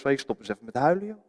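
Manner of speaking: quick, offhand stop crying, joh; dismissive brush-off. Retold or imitated. Preacher mimicking a careless mourner's visitor, quick and offhand. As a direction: toss it off casually, mock careless. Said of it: "Dat had niet iemand tegen mij moeten zeggen".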